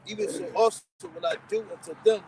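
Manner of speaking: measured, declamatory Bible reading; scripture reading. Real, not acted. Reads scripture aloud.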